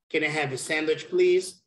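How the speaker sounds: "Can I have a sandwich, please?" brisk, with "please" lifted; question intonation demo. Shown as a demonstration. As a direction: run the words together, then raise "please". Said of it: "I'm gonna show you how you do it".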